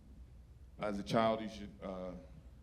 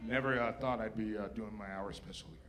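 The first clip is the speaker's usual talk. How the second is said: choked up. Real, not acted. Comic overwhelmed on his first stage, choked up and fading. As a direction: let the tears catch the words. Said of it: "I wanna cry on stage".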